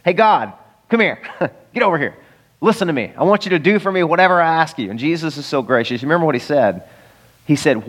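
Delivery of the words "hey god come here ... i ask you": blunt demand. Retold or imitated. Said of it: "That's the blunt, direct approach".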